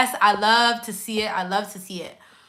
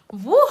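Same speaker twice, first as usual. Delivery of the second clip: excited whoop; 4 dB louder than usual. Real, not acted. Overwhelmed by love from viewers.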